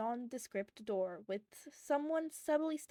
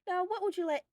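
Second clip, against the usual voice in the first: kinder voice; 9 semitones higher, 6 dB louder, faster than usual. A narrator's reading. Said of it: "she asked in a kinder voice".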